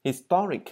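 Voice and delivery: Historic said with the TO syllable stressed and high; stress on second syllable. Shown as a demonstration. Teacher shows learners stress on TO in Historic. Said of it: "Cho âm rơi vào chữ to".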